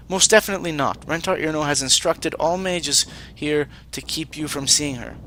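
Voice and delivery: lightly voiced formal mage; stiff, formal alien apprentice; Vanatai mage voice.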